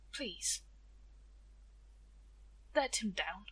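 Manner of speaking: put-on slow, soft and halting, like a frail old friend. Oldest friend begging Tia to free Death, slow halting voice. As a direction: pause between the tired words. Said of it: "in a slow, halting voice".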